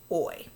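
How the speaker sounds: "oi" said alone as a vowel glide; isolated oi sound. Shown as a demonstration. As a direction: sound out "oi" for a learner. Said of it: "We hear that oi sound".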